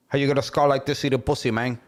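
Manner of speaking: put-on lightly done gangster movie accent; put-on tough-guy movie quote; Scarface. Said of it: "you just did that Scarface voice".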